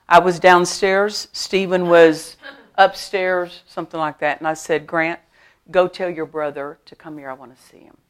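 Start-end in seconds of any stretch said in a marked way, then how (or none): 4.9-8.0 soft, gentle request with no threat; calm and kind, nobody's in trouble; said nicely. Retold or imitated. Mother quietly asking son to fetch his brother, gentle. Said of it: "I just said it like that, just n-, nicely".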